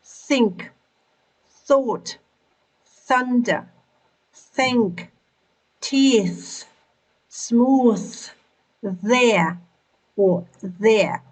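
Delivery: "think", "thought", "teeth" one by one with a clear "th"; TH word drill. Shown as a demonstration. Teacher drills T H words for learners, isolated careful articulation. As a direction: model each "th" word separately, pauses between. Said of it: "Pronounce words with the sound th".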